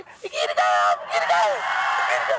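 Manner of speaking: lightly put-on girlish voice; girl's voice. Girl on a scooter telling her fallen friend, lightly put-on voice. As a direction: gently tell a friend she has fallen. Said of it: "तो कहेगी".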